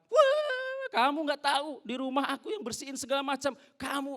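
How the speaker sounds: high, loud nagging rant; wife scolding husband over thrown shoes, high and loud. Retold or imitated. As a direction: tear into him like a fed-up wife.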